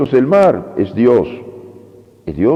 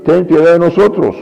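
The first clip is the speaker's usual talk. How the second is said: calling out; 6 semitones higher than usual. Retold or imitated. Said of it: "comenzaron a gritar".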